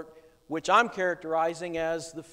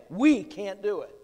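"We" pushed out louder than the rest; stress on WE; 3 dB louder than usual. Shown as a demonstration. Preacher concedes the spies' point, stressing "We". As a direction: land on the word "We". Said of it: "notice the emphasis here".

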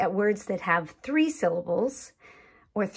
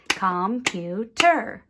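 "computer" slowly chopped into three beats; clapped syllables. Shown as a demonstration. Teacher clapping for young learners, "computer" slow, syllable by syllable. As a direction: clap out "computer" slowly as com, pu, ter. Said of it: "You could even clap it".

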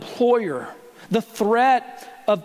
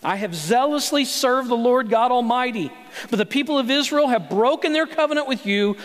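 higher, rattled-off self-pity; rehearsed complaint; 3 semitones higher than usual. Retold or imitated. Elijah repeating his rehearsed story, higher and mocking. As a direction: recite it like a worn excuse. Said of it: "same rehearsed story all over again".

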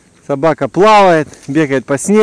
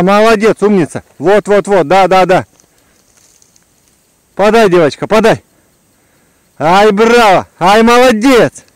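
squeaky praising a dog; 5 semitones higher, 4 dB louder than usual. Real, not acted. Praising dog after retrieve.

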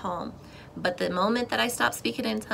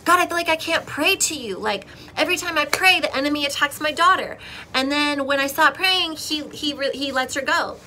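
higher-pitched, pleading complaint; frustrated prayer; 5 semitones higher, 4 dB louder than usual. Retold or imitated. Mother complaining to God about attacks on daughter, frustrated. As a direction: retell a frustrated plea to God. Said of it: "I'm, like, frustrated again".

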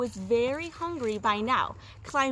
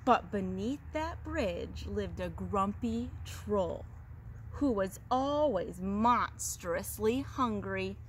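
animated read-aloud with drawn-out emphasis; storyteller lingering on key words; story narration; slower than usual. A narrator's reading. Teacher reads goat tale to second graders, animated storytelling. Reads a picture book to children.

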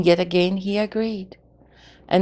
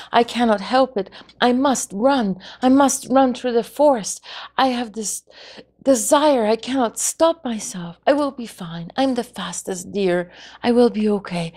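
eager; 4 semitones higher than usual. Acted. Deer eager to run.

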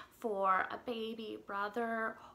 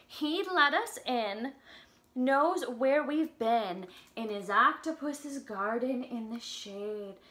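slow, sing-song storybook reading; reading to children; 3 dB louder, slower than usual. Acted. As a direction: read the lyrics gently to little kids. Reads song lyrics to children.

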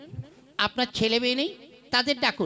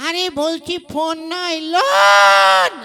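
drawn-out shouted লোন; loud correction; 5 semitones higher, 11 dB louder, much slower than usual. Acted. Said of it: "অত চেঁচাচ্ছেন কেন?". ("ফোন নয়, লোন" বলে টেনে চিৎকার)

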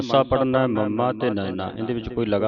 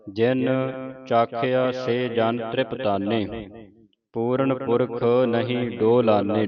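slow, drawn-out reading of verse; scripture recitation; slower than usual. Acted. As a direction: recite it slowly, word by word. (ਧੀਮਾ Gurbani ਪਾਠ)

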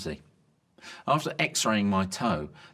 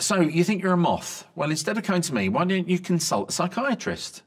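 a light, higher doctor voice, louder; 9 semitones higher, 3 dB louder than usual. Acted. GP questioning a moth patient, lightly voiced. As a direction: play the puzzled GP.

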